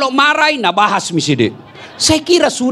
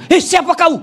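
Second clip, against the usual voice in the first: higher startled question; 9 semitones higher than usual. Acted. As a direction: jump back in fright. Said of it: "kaget suaminya". (suami kaget, suara naik tinggi)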